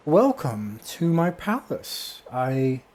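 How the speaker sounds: high, loud, slow grand proclamation; echoing booming voice. Acted. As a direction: boom it out like a grand hostess floating overhead. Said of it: "in an echoing, booming voice".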